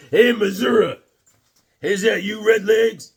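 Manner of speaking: loud, high hail to a friend; calling out. Real, not acted. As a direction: shout across to Micah.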